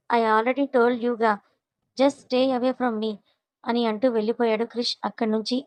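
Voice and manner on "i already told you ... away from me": very slow, drawn-out brush-off; cold dismissal. Acted. Krish telling Tripada to stay away, slow and cold. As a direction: stretch every word to push her away.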